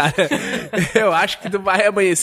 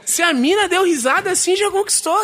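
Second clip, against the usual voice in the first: laughing; 12 semitones higher than usual. Real, not acted. Laughing while explaining flirting.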